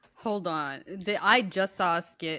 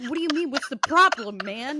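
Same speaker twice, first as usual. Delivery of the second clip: high-pitched mock alarm, louder midway; freaking out; 4 semitones higher, 4 dB louder, faster than usual. Retelling the worried honey-pack eater's questions, mock freak-out. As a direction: imitate a rattled, clueless friend. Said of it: "he started freaking out".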